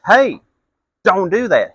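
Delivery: loud yell to stop a driver; flagging down a fire truck, shouting high and loud; hollering. Retold or imitated. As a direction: call out hard, high and loud. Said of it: "flag him down and holler".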